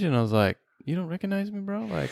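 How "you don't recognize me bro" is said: incredulous. Retold or imitated. Asking homeless man if he remembers.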